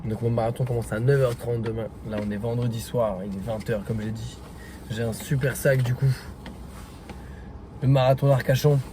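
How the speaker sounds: swollen tonsils voice, hoarse; talking through a painful sore throat. Real, not acted. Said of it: "je suis désolé si la lumière est pas bonne et ma voix non plus".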